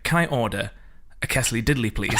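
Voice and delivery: Kessely Diddley said KESS-lee DID-lee, very serious and proper; mispronounced quesadilla. Retold or imitated. Proper middle-aged woman ordering a quesadilla, mispronounced in earnest. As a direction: ask for a Kessely Diddley with total straight-faced poise. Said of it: "very, very proper ... very serious".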